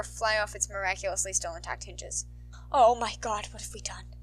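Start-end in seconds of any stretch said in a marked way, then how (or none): 2.7-4.1 whimpered. Acted. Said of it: "a member whimpered".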